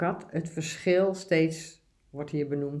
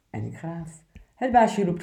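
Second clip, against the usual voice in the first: steady, obedient picture-book reading; poem read aloud; 3 dB louder than usual. Acted. Presenter reads the good dog poem aloud, earnest reading.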